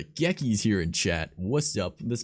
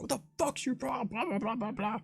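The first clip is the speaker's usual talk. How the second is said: much higher, squeaky mocking voice; mock confrontation; 4 dB quieter than usual. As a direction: toss off the rant in a silly high voice. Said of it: "I was like".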